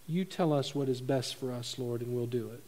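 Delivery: low, soft surrender to God; submissive prayer. Acted. Preacher models letting the Lord decide, submissive prayer.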